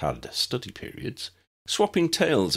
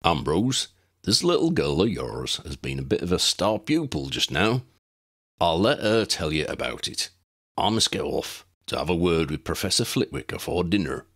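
gruff giant voice; 3 semitones lower than usual. Acted. Hagrid speaking to Ambrose.

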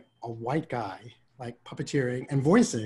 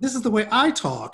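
laughing punchline; 8 semitones higher, 5 dB louder than usual. Retold or imitated. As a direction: deliver the comeback while cracking up. Retelling his punchline to producer.

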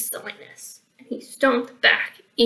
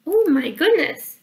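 Little Red Riding Hood; 6 semitones higher, 5 dB louder than usual. Acted. Little Red facing the big toll, high sighing dismay. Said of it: "sighed Little Red Riding Hood".

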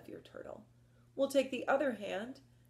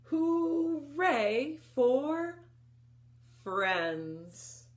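cheer; 7 semitones higher, 5 dB louder, much slower than usual. A narrator's reading. Story climax cheer.

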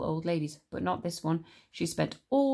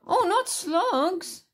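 higher, louder, very slow wail; cried out in disgust; 13 semitones higher, 5 dB louder, much slower than usual. Acted. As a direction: wail in horror at slugs. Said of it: "George cried out".

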